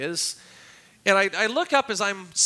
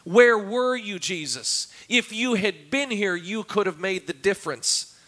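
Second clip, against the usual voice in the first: distraught plea; 2 semitones higher than usual. Acted. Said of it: "I don't think there was anything calm".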